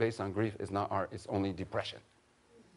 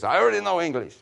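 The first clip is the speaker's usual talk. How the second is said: joke quote; 8 semitones higher, 7 dB louder than usual. Retold or imitated. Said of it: "big Indian jokes".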